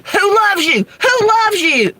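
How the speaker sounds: high-pitched imitation of an upset mom; upset mother. Mimicking mother upset at a phone commercial, high upset demand. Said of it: "my mother got so upset".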